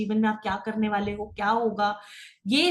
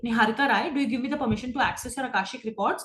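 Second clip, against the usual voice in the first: gentle request for permission; slower than usual. Shown as a demonstration. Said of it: "मैं बोलूंगी".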